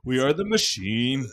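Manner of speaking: put-on Russian accent. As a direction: boast in a mock Russian accent. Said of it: "it's not related to Russians".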